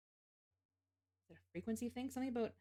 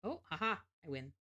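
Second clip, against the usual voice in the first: triumphant laugh; 4 dB louder than usual. Real, not acted. Wins puzzle, laughs.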